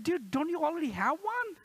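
puzzled dad. Retold or imitated. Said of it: "I said".

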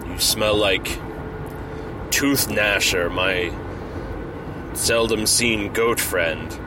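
a hint of a booming Asgardian greeting his friend; Thor voice. Thor voiced in a retold scene.

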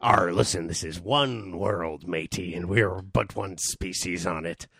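slow sage pirate speech. Pretend. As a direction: lecture like a wise old pirate. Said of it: "I was just doing the pirate voice".

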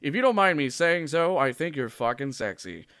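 hammed-up anchor voice, laughing; news anchor voice. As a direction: play the smug TV anchor. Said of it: "I should be doing this in an anchor voice".

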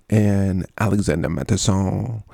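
half-hearted mock-French accent; lightly put-on French pronunciation. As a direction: try the name with a French ending. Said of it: "that doesn't sound really good in a French accent".

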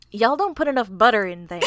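Southern accent at talking level. Shown as a demonstration. Teasing a co-host about cooking, in a southern accent. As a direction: scold lightly in a Southern accent. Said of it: "your attempt at a southern accent".

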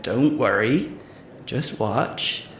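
a hint of country farmer accent; amateur rustic farmer accent. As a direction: reassure in a lightly put-on farmer accent. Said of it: "I'm really sorry about the accent".

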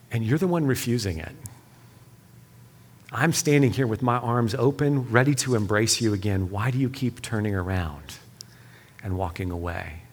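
a tender fatherly appeal; gentle reminder. Retold or imitated. God gently reminding a refusing son, tender. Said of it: "gently reminding me".

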